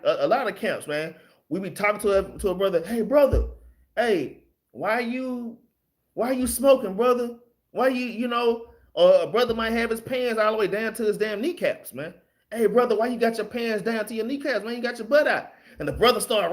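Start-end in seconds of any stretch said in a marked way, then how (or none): 2.9-8.7 higher, calling out to a brother. Retold or imitated. 12.5-15.5 higher calling out on the street; higher street call to a brother. Retold or imitated.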